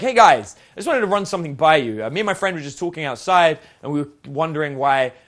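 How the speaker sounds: loud opener addressing a whole group; loud on the hail, then keep it rolling; attention grabbing. Shown as a demonstration. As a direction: project to grab everyone's attention at once. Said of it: "using the attention grabbing".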